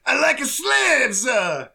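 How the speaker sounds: Watto. Acted. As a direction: imitate a silly creature with drawn-out endings. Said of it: "Watto goes".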